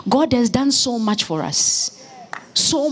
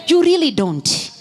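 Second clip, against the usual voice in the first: preacher's shout; 7 semitones higher than usual. Real, not acted. Preacher pressing the congregation, shouting. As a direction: drive the point home with a shout. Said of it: "I said".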